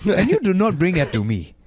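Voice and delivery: demanding parrot in a mock African accent. Parrot voice in an African accent demanding a cracker. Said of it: "a voice of him, but he was from Africa".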